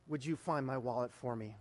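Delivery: low, softening plea to God; subdued prayer. Retold or imitated. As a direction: let the prayer sink down to a hushed close. Retold prayer asking for wallet.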